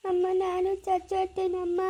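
slow, faint and fearful; sick son asks his mother, slow and frightened; slow, weak plea. Acted. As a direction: ask it slowly, afraid. Sick son fears dying.

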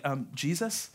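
halting, awkward objection; acted uneasy stalling; hesitant disciples. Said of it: "the disciples are probably like".

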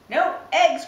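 crying out. Acted. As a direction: yell it in shocked disbelief. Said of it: "cried Farmer Brown".

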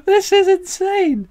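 high, slow cry of disbelief; excited disbelief. Real, not acted. Coin hunter reacts to a rare find, high excited disbelief. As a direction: gasp it out, can't believe the luck.

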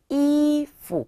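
이푸 with 이 held high and level, 푸 short and dropped; neutral-tone demo. Shown as a demonstration. Teacher models the word for clothes, high tone then neutral tone. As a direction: hold 이 high, then drop 푸 lightly. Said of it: "경성이에요".

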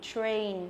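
"train" with a clear "tr" and long A; falling "train" with a full ay glide; correct model. Shown as a demonstration. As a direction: model "train" carefully, r sounded. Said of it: "đây là âm A".

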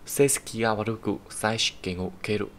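slow model sentence reading; reading example sentence. Shown as a demonstration. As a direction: read it slowly for the class. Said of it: "reads example sentence aloud".

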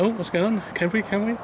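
lightly voiced geese wanting food; mock geese voice. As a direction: speak for the hungry geese begging for food. Voicing the geese arriving.

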